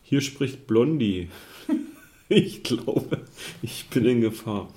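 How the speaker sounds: panicked call, broken by giggles; reading a distress call while laughing; laughing through the line. Acted. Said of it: "Dovi war wohl schon besetzt". (lachend vorgelesener Notruf)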